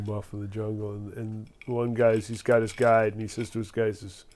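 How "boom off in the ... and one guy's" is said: normal talking voice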